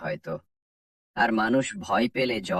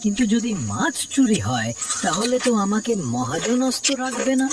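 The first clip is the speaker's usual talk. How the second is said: put-on an uneasy old fisherman muttering to himself at night; a fisherman fretting that his fish will be stolen, voice rising with worry; worried fisherman; 11 semitones higher than usual. Alone at the fish pond at night, a worried fisherman talks himself into checking.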